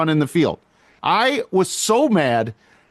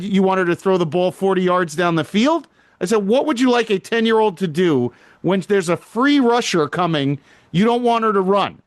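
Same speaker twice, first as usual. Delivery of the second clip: retold heated argument; 2 semitones higher than usual. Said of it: "I started getting heated".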